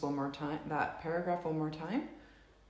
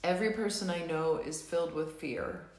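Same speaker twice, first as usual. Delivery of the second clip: tapping script read. Acted. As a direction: guide the group through each tapping statement. Leads EFT tapping script.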